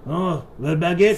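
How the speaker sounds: high, hammed-up French voice; mock French accent. French sailor longing for bread, in a mock French accent. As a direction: swoon over bread like a cartoon Frenchman. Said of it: "Is that racist?".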